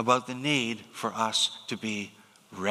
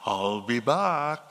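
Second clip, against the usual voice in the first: slow, mock Austrian accent, Schwarzenegger style; a light nod to an Austrian action hero; preacher imitating the Austrian catchphrase, slow; 3 semitones lower, slower than usual. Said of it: "in his Austrian accent".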